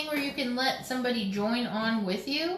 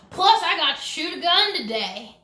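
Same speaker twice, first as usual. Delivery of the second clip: higher, louder North Carolina twang, imitating her; mock North Carolina accent; 6 semitones higher, 6 dB louder than usual. Teasing his wife by repeating her line in a North Carolina accent. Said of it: "In your, like, North Carolina accent".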